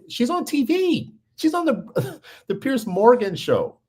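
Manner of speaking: high, slow, laughing in disbelief. Real, not acted. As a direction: laugh it out, can't believe it. Disbelieving laugh at her fame.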